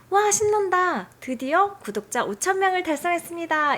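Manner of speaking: high, loud thrilled cheer; passionate excitement. Shown as a demonstration. YouTuber demoing how he wants the AI to sound, loud excited cheer. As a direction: burst out celebrating the milestone. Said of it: "격정적인 말투를 이렇게 한번 생성을".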